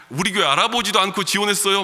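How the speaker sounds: mock angry senior pastor. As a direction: mimic the senior pastor scolding him. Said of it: "막 화를 내시는 거예요". (선배 목사가 화내며 꾸짖는 흉내)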